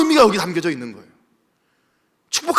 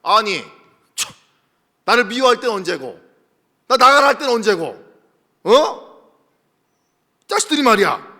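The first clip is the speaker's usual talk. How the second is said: indignant Isaac. Acted. Isaac scolding the king's men, mock indignant. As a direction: scold them like a wronged man.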